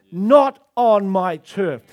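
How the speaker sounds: slow, loud pulpit declaration; bold declaration. Acted. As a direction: roar it out over the nation. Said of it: "we've not roared over our nation and said".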